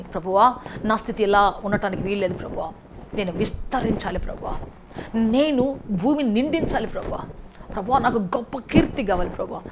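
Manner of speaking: earnest prayer voice; preacher voicing the people's prayer to God; led prayer. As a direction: pray aloud for the congregation. Leads congregation in prayer.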